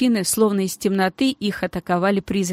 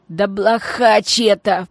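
grumbling; 4 dB louder, slower than usual. Acted. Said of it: "проворчал другой бандит".

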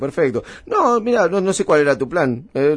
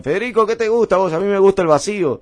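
retold party chatter; 5 semitones higher, 4 dB louder than usual. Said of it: "me decían".

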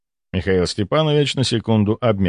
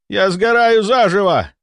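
slow, high, agonized cry; 10 semitones higher, 4 dB louder than usual. A narrator's reading. Patient burning with fever, crying out. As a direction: wail it in feverish agony. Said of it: "кричал он".

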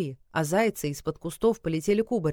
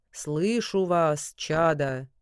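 thunderous god voice; much slower than usual. Acted. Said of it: "громовым голосом".

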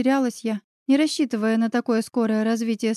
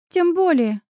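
enthused; 7 semitones higher, 4 dB louder than usual. A narrator's reading. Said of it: "воодушевилась Оля".

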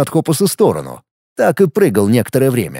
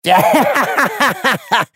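gloating laugh; 8 semitones higher than usual. A narrator's reading. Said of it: "Он рассмеялся и торжествующе".

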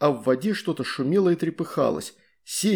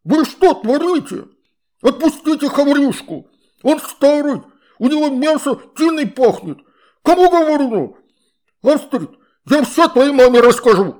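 angry water spirit; 11 semitones higher, 9 dB louder than usual. A narrator's reading. Water spirit scolds children.

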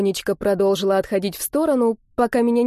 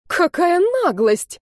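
high, slow cry of indignation; outraged exclamation; 10 semitones higher, 3 dB louder, slower than usual. A narrator's reading. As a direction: gasp out the outrage. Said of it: "воскликнула мадам Августа". (высокое возмущённое восклицание)

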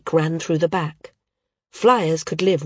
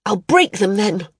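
near hysteria; 3 semitones higher, 4 dB louder than usual. Acted. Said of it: "riding the edge of hysteria".

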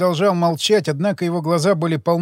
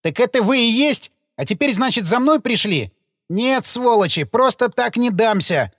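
gravedigger pitched high, panicking and defiant; cornered and ready to fight; terrified; 6 semitones higher than usual. Acted. Terrified gravedigger mistaking the detectives for the killers, panicked. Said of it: "передёрнулось от ужаса".

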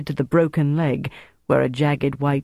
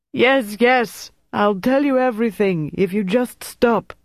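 high, desperate outcry; yelling; 7 semitones higher than usual. A narrator's reading. Prisoner promises to tell interrogator everything, yelling. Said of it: "Gaston yelled".

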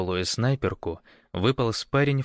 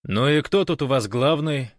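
raised, higher-pitched call; loud question; 6 semitones higher, 4 dB louder than usual. A narrator's reading. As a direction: call out to people at a distance. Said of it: "громко спросил он".

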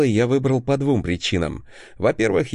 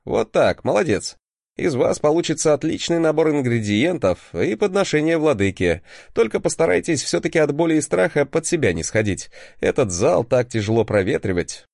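strict teacher; 4 semitones higher than usual. Acted. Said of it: "играем с тобой в строгого преподавателя".

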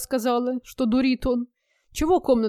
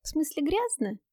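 sarcastic; 5 semitones higher, 5 dB quieter than usual. A narrator's reading. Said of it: "съязвила Женька".

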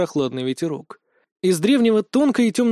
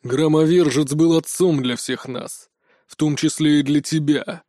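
growling. Acted. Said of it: "прорычал Анубис".

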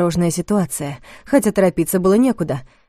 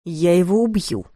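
muttered threat. A narrator's reading. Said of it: "процедил во время паузы кто-то из ребят".

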